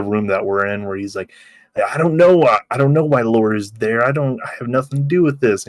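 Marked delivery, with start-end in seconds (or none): 1.8-5.7 panicked protest, higher and louder at the start; mock panicked denial; flipping out. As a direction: blurt it out like a nervous kid caught out. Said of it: "he's all flipping out".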